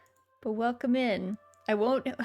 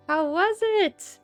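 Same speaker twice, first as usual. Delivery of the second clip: cute anime streamer; 7 semitones higher, 3 dB louder, slower than usual. Real, not acted.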